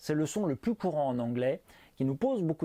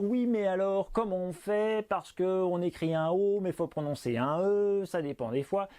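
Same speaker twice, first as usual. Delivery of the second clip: higher-pitched puzzled student; objecting learner; 4 semitones higher than usual. Acted. Teacher imagining the learners' objection, higher puzzled voice. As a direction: lightly voice a confused pupil's objection. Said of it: "vous allez me dire".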